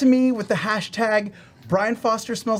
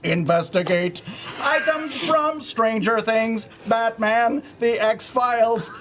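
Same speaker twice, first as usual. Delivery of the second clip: robot voice, stiff and announcer-like; a lightly voiced robot from the future; old speech synthesizer; 3 semitones higher than usual. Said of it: "Sam three thousand".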